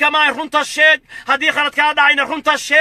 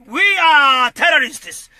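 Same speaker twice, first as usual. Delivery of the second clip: shouting; much slower than usual. Real, not acted. Rally speech, slow bitter declaration.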